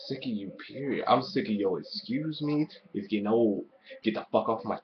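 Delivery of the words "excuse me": mock Vicky. Mocking Vicky Guerrero's catchphrase.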